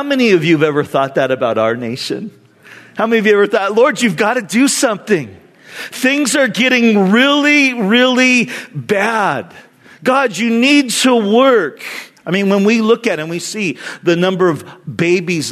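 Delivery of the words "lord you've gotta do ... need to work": urgent plea. Retold or imitated. Believer praying over the nation, pleading. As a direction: plead on the congregation's behalf, stretching key words. Voices congregation's urgent prayer.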